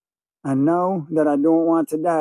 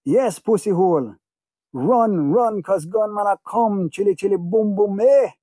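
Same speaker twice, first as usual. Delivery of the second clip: jeering yell; 4 semitones higher than usual. Retold or imitated. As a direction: taunt them as you chase. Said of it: "people running and screaming".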